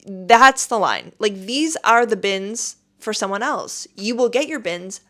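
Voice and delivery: loud, stern telling-off; retold scolding of queue jumpers; firm scolding. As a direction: put the line-cutters in their place. Scolding line-cutters at airport.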